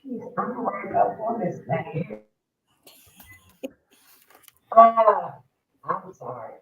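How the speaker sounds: muffled and far from the mic; like talking through a wall. Real, not acted. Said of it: "You sound like you muffled".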